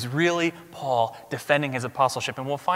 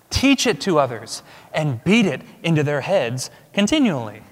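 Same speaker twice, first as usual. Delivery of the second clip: lightly voiced, higher and louder quotation; forceful Luther quote; 4 semitones higher, 6 dB louder than usual. Preacher reading Martin Luther to the church with mock force. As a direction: declaim it like the reformer. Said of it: "I wish I could say this with a German accent".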